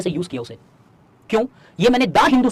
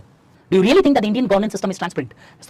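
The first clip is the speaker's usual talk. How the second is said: slow dictation; much slower than usual. Acted. Dictates question slowly.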